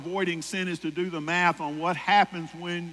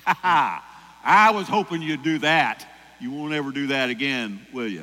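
gloating punisher God; 2 semitones lower, 6 dB louder than usual. Pretend.

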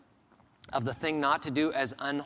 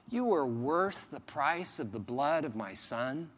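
gentle reassurance. Retold or imitated. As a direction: comfort them tenderly. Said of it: "He's saying".

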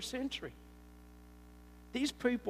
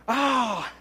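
flustered excuses; 2 semitones higher, 3 dB louder than usual. Retold or imitated. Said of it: "a singer".

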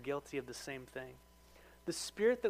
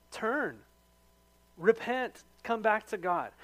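raised, impassioned loving rebuke; earnest plea; 3 semitones higher, 4 dB louder than usual. Retold or imitated. Believer urging a straying brother to repent, impassioned. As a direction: plead with them to turn back.

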